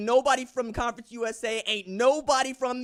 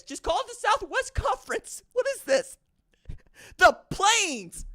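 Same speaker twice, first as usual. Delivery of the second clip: mocking; 8 semitones higher than usual. Mocking conference names.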